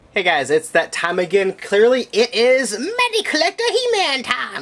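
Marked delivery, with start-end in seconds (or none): 1.5-4.6 very high, slow, goofy, silly voice. Greeting viewers at the start of a figure review, in a stupid voice. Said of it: "that was a stupid voice".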